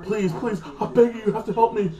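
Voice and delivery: laughing mock whimper of a scheming prisoner; mock begging. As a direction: ham up the fake desperate beggar, laughing at him. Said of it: "being a little bitch to trick him".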